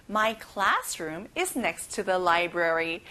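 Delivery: slow word by word, stress on "is"; very slow model sentence. Shown as a demonstration. Teacher reads the sentence very slowly for children. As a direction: read it out slowly and evenly. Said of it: "같이 따라해봐요".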